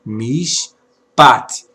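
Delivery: "mishpat" with long mish, short stressed pat; reading demonstration. Shown as a demonstration. Teacher showing how the word is read, "mishpat" in two clear syllables. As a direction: draw out mish in "mishpat", then land pat. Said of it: "Essa é a leitura".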